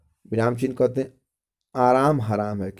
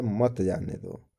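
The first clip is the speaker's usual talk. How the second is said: slow, softer मत जाने दो, falling; separate phrase after pause; 2 semitones lower, 6 dB quieter, slower than usual. Shown as a demonstration. Teacher reads what follows the comma, मत जाने दो slow and falling. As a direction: stretch out मत जाने दो and let it drop. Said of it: "उसके बाद कह रहा है".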